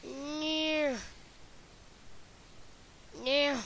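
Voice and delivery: panicked real shouts; shouting no. Real, not acted. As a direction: yell in panic as you're attacked. Getting attacked in game.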